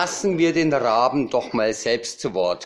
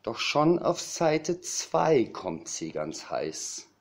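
measured, lilting verse delivery; comic poem recital. Acted. Cabaret poet recites a raven's literary ambitions, comic poem recital. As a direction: savour each rhyme with pauses between lines.

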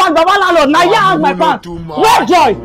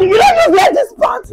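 higher, accusing yell; angry shout; 6 semitones higher than usual. Acted. Accusing Joy of wearing pants.

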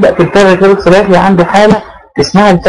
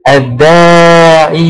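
drawn-out example; much slower than usual. Shown as a demonstration. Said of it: "teacher demos the example word".

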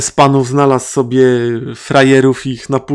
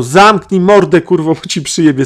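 a mock yell, louder at the start; retold shout; 3 semitones higher, 3 dB louder than usual. Metal kid shouting down the cursing old woman, mock yell. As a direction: bark it like the lanky metalhead on the bus. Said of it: "krzyknął".

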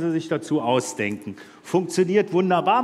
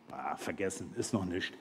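mild Petrus; 13 semitones lower, 17 dB quieter than usual. Retold or imitated. Petrus voiced in joke.

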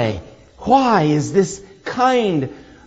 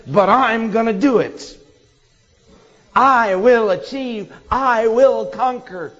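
proud resolve; 4 semitones higher than usual. Retold or imitated. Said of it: "another voice which says".

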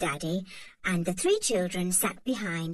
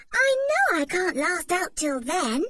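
dramatic dismay; 9 semitones higher, 4 dB louder than usual. A narrator's reading. Anne protests to Mother about lunch, dramatic. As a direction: overplay your hunger.

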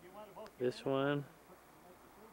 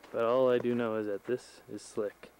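altitude breathless. Real, not acted. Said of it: "it's hard to breathe up here".

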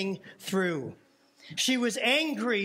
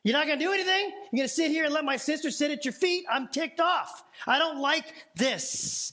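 raised, half-laughing gripe at Jesus; hammed-up indignant complaint, higher; mock irritated complaint; 4 semitones higher than usual. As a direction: playfully voice a ticked-off sister. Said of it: "being like".

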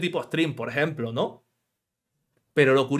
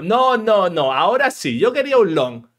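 louder, insistent mock correction; mock insistence; 2 semitones higher, 5 dB louder than usual. Coder insisting to Android on a long, louder. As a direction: insist on it, a little exasperated. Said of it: "Pero si le digo".

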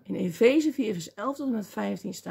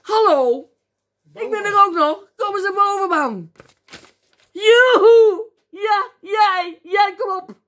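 high, loud encouraging holler; eager yelled summons; shouting down; 9 semitones higher, 11 dB louder, slower than usual. Acted. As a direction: call someone up from far below. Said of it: "die schreeuwen naar beneden".

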